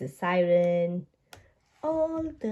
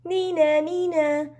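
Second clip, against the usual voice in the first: siren sound; 5 semitones higher than usual. Retold or imitated. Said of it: "says Peppa".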